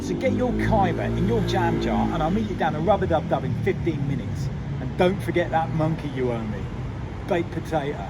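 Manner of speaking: streetwise Cockney patter, calling to a mate; Cockney slang demo. Shown as a demonstration. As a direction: rattle off Cockney slang to a pal, demonstrating. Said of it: "Let me give you an example".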